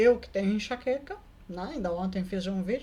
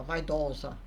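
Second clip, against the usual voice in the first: lower, clumsy echo of "Vaidosa"; "Vaidosa" repeated low by the mimicking woman; imitating the woman; 7 semitones lower, slower than usual. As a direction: parrot "Vaidosa" back like a foreigner. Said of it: "E ela me imitava".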